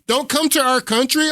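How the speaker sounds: sarcastic high-pitched mock quote; mocking echo. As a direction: mimic them with a high sneer. Mocking the protesters' chant.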